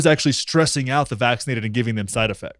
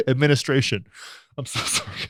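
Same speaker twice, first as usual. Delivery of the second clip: stifled laughter; 5 dB quieter than usual. Real, not acted. Stifling laughter while reading.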